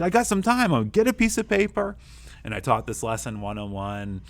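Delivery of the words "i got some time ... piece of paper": much higher and louder eager offer; upbeat teacher. Retold or imitated. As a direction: keep the kid's spirits up. Teacher cheering up upset girl.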